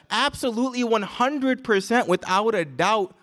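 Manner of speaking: firm stress on "absolutely" and "hundred"; "absolutely one hundred percent" said as an emphatic guarantee; emphatic certainty. Retold or imitated. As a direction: drive home "one hundred percent" with no doubt. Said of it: "with emphasis".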